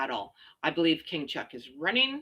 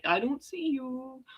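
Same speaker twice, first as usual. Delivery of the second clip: playing along with a toddler. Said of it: "pretend and be like".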